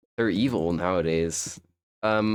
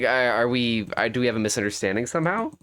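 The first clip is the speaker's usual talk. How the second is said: hesitant, stammered question, then quicker; mentally stumbling; faster than usual. Retold or imitated. Streamer retelling a mix-up to chat, stumbling in confusion. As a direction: trip over the start, mildly puzzled. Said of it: "I kinda stumbled there mentally".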